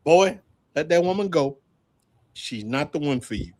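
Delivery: a hint of Yoda, low and soft; Yoda-like wise father. Father warning his son about the woman, in a mild Yoda voice. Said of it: "he was like Yoda".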